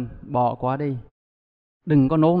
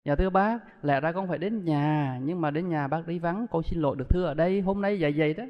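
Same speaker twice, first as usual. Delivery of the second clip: respectful greeting; 5 dB quieter than usual. Retold or imitated. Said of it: "vòng tay lại đứng".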